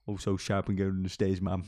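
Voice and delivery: fast breathy whispered aside; quick conspiratorial whisper. Pretend. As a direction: hush it out quickly under your breath.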